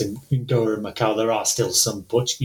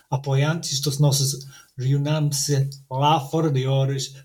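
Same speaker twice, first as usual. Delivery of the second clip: measured literary reading, Portuguese text; story reading in Portuguese. Acted. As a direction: read the story opening aloud to listeners. Reading story opening aloud.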